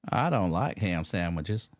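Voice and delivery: drawn-out, slow caller voice; imitated odd caller. Odd caller answers the radio host, slow drawn-out mock voice. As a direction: play a slow, kooky phone-in caller. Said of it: "calling in and go".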